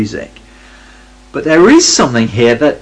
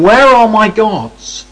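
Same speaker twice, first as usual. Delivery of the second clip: high, slow, hammed-up wail; mock sobbing; 9 semitones higher, 4 dB louder, much slower than usual. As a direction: whimper it like a lost child, hammed up.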